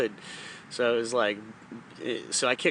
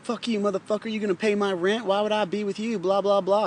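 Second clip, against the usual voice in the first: pitched-up mimicry of a scornful girl; mock her higher, sneering and dismissive; mocking bratty woman; 8 semitones higher than usual. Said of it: "and she was like".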